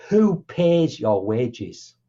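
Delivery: very slow, each word laid down deliberately; pointed question. Retold or imitated. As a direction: drag it out to make the point.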